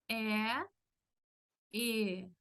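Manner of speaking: E, E: open É projected upward, then closed Ê projected down. Shown as a demonstration. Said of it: "para hacer E es como proyectar un poco hacia abajo". (E abierta hacia arriba, E cerrada hacia abajo)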